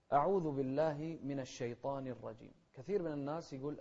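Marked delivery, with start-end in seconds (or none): 0.1-2.5 measured recitation of the opening formula; Quran recitation. Shown as a demonstration. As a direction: recite clearly and deliberately. (تلاوة مرتلة واضحة)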